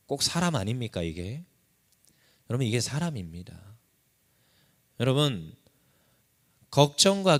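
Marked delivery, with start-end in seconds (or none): none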